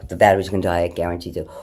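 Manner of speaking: normal talking voice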